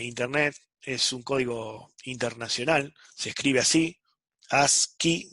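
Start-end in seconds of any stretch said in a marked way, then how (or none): 4.5-5.3 "ascii" said slowly as two syllables, AS-KI; "ascii" sounded out slowly as "as-qui"; pronunciation of ascii. Shown as a demonstration. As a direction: split "ascii" into AS, then KI, with a hard k. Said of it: "ascii se pronuncia".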